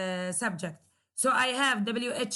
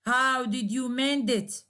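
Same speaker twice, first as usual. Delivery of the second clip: "How did you mend it?" ending on a fall; falling intonation. Shown as a demonstration. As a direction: drop the tone on "mend it". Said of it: "there is a falling intonation".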